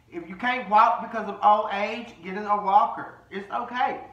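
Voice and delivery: mocking put-down. Host telling girl to get a walker, high loud mockery. Mocks her excuse about bumping.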